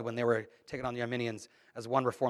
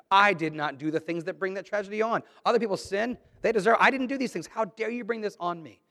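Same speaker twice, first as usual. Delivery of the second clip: mock indignant complaint to God, pitched up; indignant believer; 2 semitones higher than usual. Preacher voicing a believer who blames God, indignant. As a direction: voice a self-righteous grumbler.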